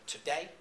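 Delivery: "today" with a light "to" and a lifted "day"; stress on second syllable. Shown as a demonstration. Lecturer showing students iambic stress in "today", stressed on "day". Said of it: "you have an unstressed syllable, as in the word".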